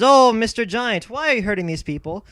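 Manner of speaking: a hint of a timid rabbi calling up the hill; pleading rabbi. Rabbi addresses the giant.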